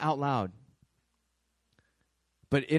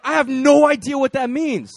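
laughing puzzlement; 10 semitones higher, 12 dB louder than usual. Retold or imitated. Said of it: "And he's like".

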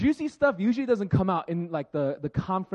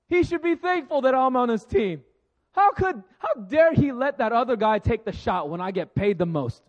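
louder, higher, cocky complaining; arrogant athlete rant; 3 semitones higher, 5 dB louder than usual. Retold or imitated. A preacher voicing a cocky athlete blaming his coach, louder. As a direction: gripe like a star player who thinks he's owed. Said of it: "they'll say something like".

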